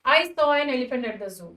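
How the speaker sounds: slow, word by word; slow example read. Shown as a demonstration. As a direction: read the sentence out slowly for students. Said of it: "अब आप second example देखिए".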